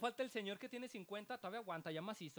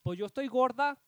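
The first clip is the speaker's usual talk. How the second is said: pushy lady; 3 semitones higher, 14 dB louder than usual. Retold or imitated. Imitating pushy lady in line.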